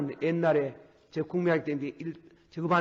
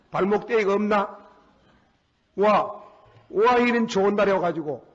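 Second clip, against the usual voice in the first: scolding father. Retold or imitated. Preacher retelling how he scolded his son, half-hearted scolding. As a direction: berate him, building up. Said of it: "점잖은 말을 좀 못할 때가 많습니다".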